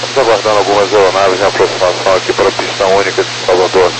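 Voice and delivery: captain's PA update; calm pilot announcement voice; plane cabin announcement. Acted. Captain updates passengers on delay.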